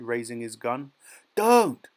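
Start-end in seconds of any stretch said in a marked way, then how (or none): 1.4-1.9 high, loud cry of protest; desperate scream. A narrator's reading. Boy begs as the gun is raised, screaming. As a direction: scream it to stop him. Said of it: "screamed Peter".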